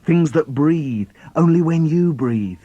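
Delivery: put-on child alone in the dark, frightened; fearful. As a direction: let the fear crack the voice.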